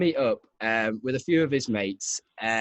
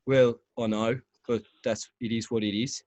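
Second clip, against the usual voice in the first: Brummie doctor; 3 semitones lower than usual. Retold or imitated. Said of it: "stop doing the accents now".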